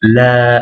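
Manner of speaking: "La" with a long held a; one long, sustained "La"; prolonged vowel. Shown as a demonstration. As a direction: stretch out the vowel of "La". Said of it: "c'est la prolongation du a".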